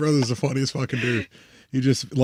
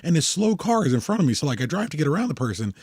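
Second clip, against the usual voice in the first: imitating his brother; 4 semitones higher, 4 dB quieter than usual. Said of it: "And he's like".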